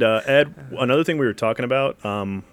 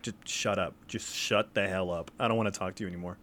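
fed up; 3 semitones lower, 8 dB quieter than usual. Retold or imitated. Imitating Ernie's annoyed answer on the stairs, quiet and fed up. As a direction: mutter it like you're done with him. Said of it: "just like".

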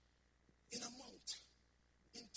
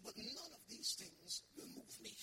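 quiet vow; 3 semitones lower, 9 dB quieter than usual. Acted. Paul's vow, quiet then repeated.

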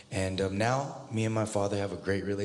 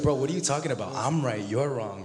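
mock argument; 5 semitones higher, 4 dB louder, faster than usual. Acted quarrel, "I'm right.

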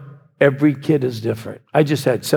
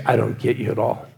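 resigned quote; 4 semitones lower than usual. Retold or imitated. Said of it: "When you had to say".

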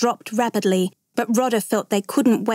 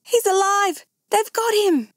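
very high, overjoyed exclamation; ecstatic cry; 11 semitones higher than usual. A narrator's reading. Mother sees her son rescued, ecstatic cry. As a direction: cry out in joy and relief, pitched right up. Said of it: "his mother cried out ecstatically".

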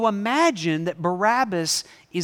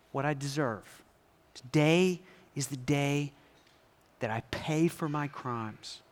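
despairing prisoner; 4 semitones lower, 3 dB quieter than usual. Acted. Barabbas despairing alone in cell.

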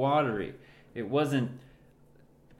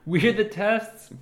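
incredulous; 9 semitones higher, 5 dB louder, slower than usual. Real, not acted. Shocked at being test subjects.

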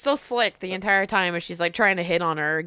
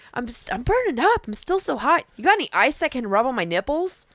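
louder, hammed-up sleazy come-on; hammed-up punk kid; 6 semitones higher, 3 dB louder than usual.

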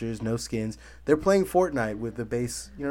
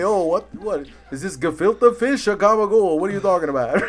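high, loud mock Jewish Brooklyn accent; hammed-up Brooklyn Jewish kvetching; Jewish Brooklyn guy; 7 semitones higher, 9 dB louder than usual. Teasing a friend's failed Italian voice, mock Jewish Brooklyn accent. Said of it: "almost Jewish Brooklyn guy".

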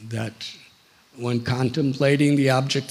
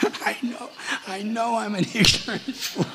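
higher, softer, sheepish reply; sheepish admission; 6 semitones higher, 4 dB quieter than usual. Acted. Indra answers his guru's rebuke, sheepish. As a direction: meekly own up, lightly acted.

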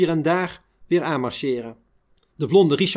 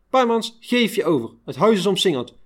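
calling out; 4 semitones higher than usual. Retold or imitated. Police calling at the door.

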